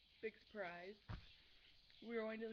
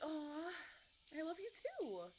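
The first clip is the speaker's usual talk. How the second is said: higher, louder sugary preppy coo; preppy gushing girl; 5 semitones higher, 3 dB louder, slower than usual. Retold or imitated. Answering a boy's drawn heart, preppy gush. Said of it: "I'm gonna do it in the preppy voice".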